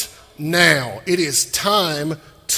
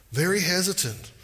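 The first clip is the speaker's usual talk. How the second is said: usual speaking voice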